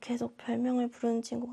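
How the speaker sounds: very quiet voice, barely audible, hard to hear. A teacher acts out a student's advice for the class, in a barely audible voice. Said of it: "잘 들리지 않는 목소리니까 더 작게 말했을 때".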